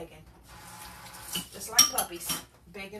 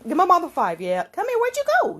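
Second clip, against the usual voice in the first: much higher, louder cooing pet talk; 8 semitones higher, 9 dB louder than usual. Real, not acted. Coaxing the kitten to give mama five, high baby talk.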